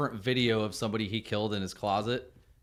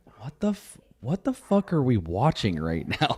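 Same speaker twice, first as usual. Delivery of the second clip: whispered voice; 5 dB louder than usual. Retelling what a wife whispered during a movie: imitating a wife's whisper. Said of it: "whispered to me".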